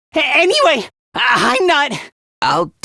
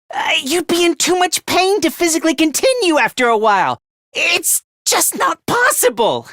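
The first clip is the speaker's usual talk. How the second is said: agitated protest; 4 semitones higher than usual. Acted. Acted defence against murder accusation.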